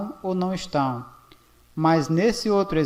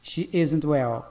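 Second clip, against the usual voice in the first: slow model sentence; slower than usual. Shown as a demonstration. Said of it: "observe as duas formas".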